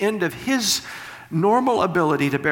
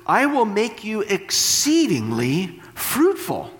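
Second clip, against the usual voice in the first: scripture reading; 2 semitones higher than usual. Acted. Preacher reading God's promise to Abraham, solemn and raised. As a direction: read it like proclaiming the Lord's promise.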